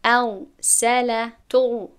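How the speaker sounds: very slow, loud syllable-by-syllable ال سل تو; drawn-out syllables; slow demonstration. Shown as a demonstration. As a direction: sound out ال سل تو one piece at a time.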